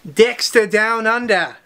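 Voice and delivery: slow, put-on Australian accent on the title; Australian twang on Dexter Down Under. Shown as a demonstration. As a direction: say the title like an Aussie, drawn out. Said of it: "That's my Australian accent".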